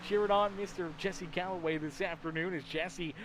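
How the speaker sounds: brisk play-by-play call; steady live sportscaster read; race commentary. Acted.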